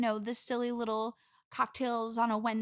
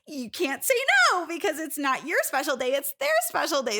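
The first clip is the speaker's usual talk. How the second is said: resentful; 5 semitones higher, 5 dB louder than usual. Real, not acted. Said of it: "I'm hearing a little bit of resentment".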